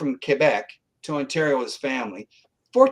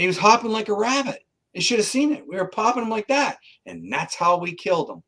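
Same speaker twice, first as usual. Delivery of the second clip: higher-pitched, animated retelling of a killer's boast; excited imitation, pitched up; gleeful killer retold; 6 semitones higher than usual. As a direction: mimic someone delighted by his own story. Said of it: "he was smiling, and he was going".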